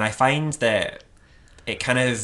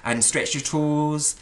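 slow, higher imitation of an encouraging instructor; lovely yoga teacher; 4 semitones higher than usual. Imitating the yoga teacher during a stretch, sweetly encouraging. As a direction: draw it out sweetly, as if leading yoga. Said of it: "And she's like".

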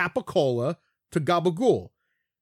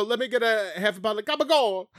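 mock Italian accent; faster than usual. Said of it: "then we go".

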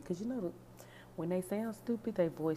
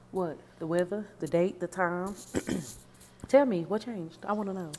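sarcastic questioning; 7 dB louder than usual. Acted. Mock sarcastic questions at boyfriend.

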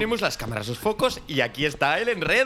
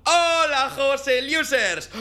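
big energetic channel intro; youtuber greeting; 9 semitones higher, slower than usual. Acted. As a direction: burst into the stream greeting. Youtuber opens live stream.

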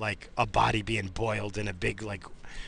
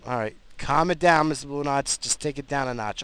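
self-calming; 5 semitones higher, 5 dB louder than usual. Real, not acted. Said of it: "I'm starting to get aggravated".

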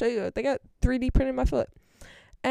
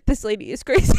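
mock loud grumble with a laugh; loud complaining; 6 dB louder than usual. Mom griping about the saleswoman within earshot, loudly. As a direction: imitate mom's too-loud remark, amused. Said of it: "talking about her so loudly".

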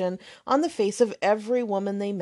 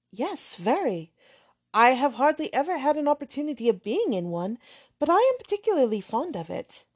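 put-on higher, gentle girlish voice; lightly voiced earnest young girl; shy young lady; 3 semitones higher than usual. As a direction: answer politely and eagerly. Catherine answers shyly.

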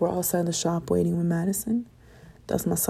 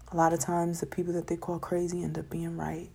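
whisper; 3 semitones lower, 5 dB quieter than usual. Real, not acted. Confiding aside about crazy geniuses.

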